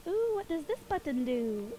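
slow, lightly voiced cartoon girl; Dee Dee impression. Streamer playing Dee Dee at a button, slow lilting voice. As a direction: draw out the curious question playfully. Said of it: "I can do Dee Dee's voice".

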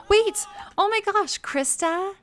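high, loud burst of joy; excited shout. Real, not acted. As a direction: call out the happy news. Sudden news of a birth.

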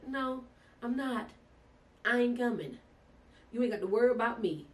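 high, loud, sassy brush-off; defiant refusal. Retold or imitated. To the hospital caller, a sassy defiant no. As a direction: shut them down with attitude.

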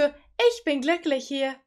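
slow, sarcastic quote; mock sweetness. Streamer mocking the mother's sudden cheer, slow. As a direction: drag it out in mock happiness. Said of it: "Und jetzt ist so".

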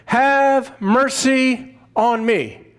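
mild imitated call, drawn out at the end; understated reenacted plea, slowing on the mercy line; retold calling out. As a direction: call out a plea without really shouting, stretching the last words. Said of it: "he called out".

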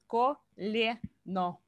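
колено drawn out with a soft L; slow and careful. Shown as a demonstration. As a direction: say колено slowly, L kept soft. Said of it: "L is always the soft sound".

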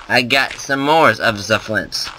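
slow, hammed-up German accent; stereotypical German accent. Gamer celebrating finding flint in a stereotypical German accent. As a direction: drag it out in a mock German accent. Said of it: "I busted out, like, the stereotypical German accent".

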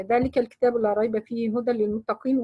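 quick recited verse; brisk tajweed recitation; Quran recitation. Shown as a demonstration. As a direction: recite it as a model reading. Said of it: "teacher recites verse as demo".

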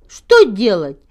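plain reading voice

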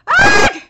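high, loud "ah"; sudden yelled exclamation; loud cry. Real, not acted. Reader cries out at the manga, loud cry.

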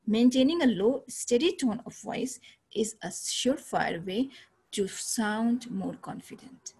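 slow, even and steady, each word spaced out; unhurried teacher modelling a steady tone for her students; calm low steady tone. Shown as a demonstration. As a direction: show them how a calm confident voice sounds. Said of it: "जैसे मैं अभी बोल रही हूँ".

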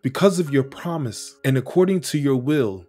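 fervent scripture reading. Acted. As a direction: pray David's words as if they were your own, swelling with awe. Reads scripture passage aloud.

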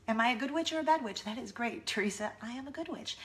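lightly voiced, lilting good witch; sweetly composed storybook witch, softening at the end. Mom playing the good witch, maniacally sweet. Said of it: "crazy, maniacal, good witch voice".

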